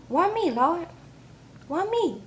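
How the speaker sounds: high-pitched hammed-up wail to the Lord; mock wailing plea. Mother wailing over daughter's prisoner fiancé, hammed-up wail. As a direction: cry out to heaven in mock despair. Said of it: "mama gets to crying".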